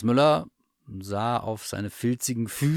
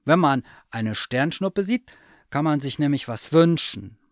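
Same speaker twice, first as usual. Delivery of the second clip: higher curious bear voice; eager teddy bear; 6 semitones higher, 6 dB louder than usual. Acted. Bear asks the cat about her wish, high and eager. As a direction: ask like a hopeful little bear.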